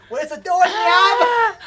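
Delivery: slow, loud, drawn-out panicked cry; panicked Joey yell. Pretend. Joey trapped by Kaiba, wailing slowly and loudly for the doorknob. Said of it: "we have to say it, like".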